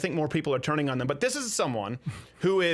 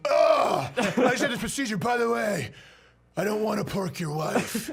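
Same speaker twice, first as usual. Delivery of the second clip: higher, put-on whiny voice; a patient oversharing, voice pushed up; mock patient; 3 semitones higher than usual. Appendectomy patient reassuring strangers, higher whiny voice. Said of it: "appendectomy, like".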